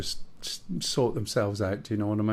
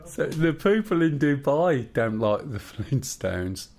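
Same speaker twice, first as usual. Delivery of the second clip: storyteller voice. Acted. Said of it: "his proper storyteller voice".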